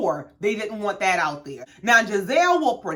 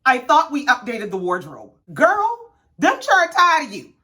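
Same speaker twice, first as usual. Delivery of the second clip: put-on fed-up kids; 3 semitones higher than usual. Kids telling Mom they are sick of her outfits, exasperated. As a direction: imitate children sick of Mom's look. Acted children fed up with mother.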